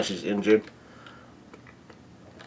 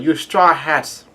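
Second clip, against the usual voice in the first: slow, higher-pitched holler; mock screech; 4 semitones higher, 4 dB louder, slower than usual. Big Mom screeching at the Straw Hats, drawn-out mock screech. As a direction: stretch it into a mild screech. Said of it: "her screech just like at the wedding".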